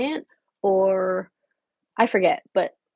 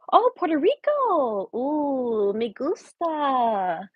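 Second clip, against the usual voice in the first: drawn-out mock Spanish accent; fake Spanish accent; much slower than usual. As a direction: put on a slow, playful Spanish accent. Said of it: "my fake accent".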